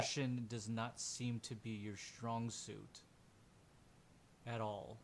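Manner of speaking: slow, dry rebuke; unimpressed NPC. Acted.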